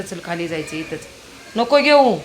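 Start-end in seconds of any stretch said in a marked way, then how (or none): 1.6-2.2 raised, firm call; loud call. Real, not acted. Mother telling her son to leave the belt, raised call. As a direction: call it out sharply. Calling the child on a walk.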